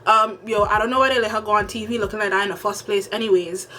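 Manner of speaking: quick, casual Caribbean island accent; Caribbean accent from home. Shown as a demonstration. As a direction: speak fast in a relaxed Caribbean home accent. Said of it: "how people speak back home".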